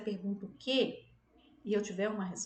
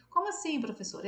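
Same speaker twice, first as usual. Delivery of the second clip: mock puzzled student; 3 semitones higher than usual. Imagined student asking.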